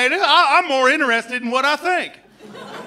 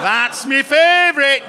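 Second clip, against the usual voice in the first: louder, slower northern English accent on "That's me favorite"; louder local British accent; 4 dB louder than usual. Shown as a demonstration. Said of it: "I can't fucking sustain it".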